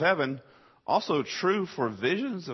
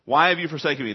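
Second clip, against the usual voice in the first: anguished cry; 2 semitones higher, 4 dB louder, faster than usual. Acted. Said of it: "it's expressed in a shriek".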